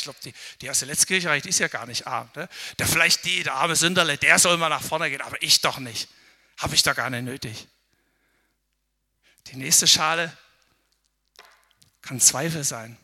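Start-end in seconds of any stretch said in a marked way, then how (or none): 2.8-7.7 louder, mock dismissive pride; the proud churchgoer points at the poor sinner; proud dismissal. Loud mock dismissal.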